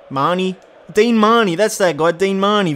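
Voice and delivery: light up as you recognise him; excited recognition. Real, not acted. Recognising a favourite player.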